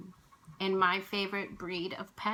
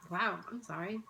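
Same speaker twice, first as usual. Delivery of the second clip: tearful apology. Real, not acted. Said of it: "I'm still quite emotional about it".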